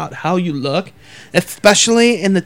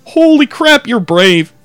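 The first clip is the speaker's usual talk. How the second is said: sarcastic; 4 dB louder, slower than usual. Pretend. Mock sarcastic praise.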